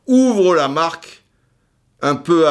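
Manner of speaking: stretched-out commentator's goal call. Retold or imitated. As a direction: announce the opening goal like a commentator. Mock match commentary, goal.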